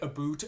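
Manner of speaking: "a boot", the vowel turned to oo; stereotype Canadian "about". Shown as a demonstration. Guest citing the Canadian stereotype, "about" said "a boot". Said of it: "so many stereotypes, like, about Canadians".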